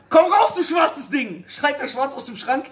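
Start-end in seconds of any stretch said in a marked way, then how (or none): 0.1-1.4 slow, high yell; shouting. Acted. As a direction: drag it out and yell at the stubborn hair. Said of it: "Irgendwann schreit er". (Ehemann brüllt das letzte Haar an, langsam und laut)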